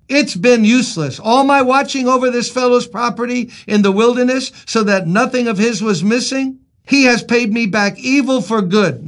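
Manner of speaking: a touch of exasperated protest; aggrieved complaint. Acted. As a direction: voice an acted grievance with some force. Reads David's angry complaint aloud.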